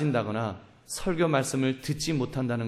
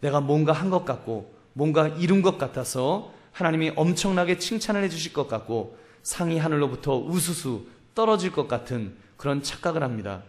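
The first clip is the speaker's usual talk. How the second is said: ordinary delivery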